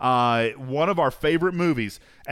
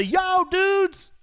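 prompted greeting. Shown as a demonstration. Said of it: "Oliver, say what's up".

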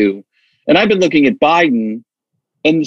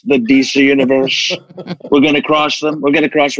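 usual speaking voice

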